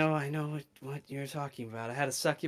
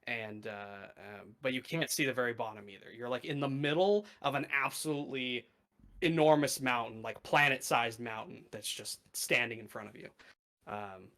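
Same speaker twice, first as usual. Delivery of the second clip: game master narration. Acted. GM describes new plane.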